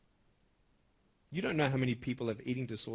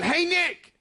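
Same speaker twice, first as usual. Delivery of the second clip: high, loud call across a distance; retold yell; 13 semitones higher, 8 dB louder than usual. Girl calling out to a boy passing by, yelling. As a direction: yell it out to catch someone's attention. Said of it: "who yells out".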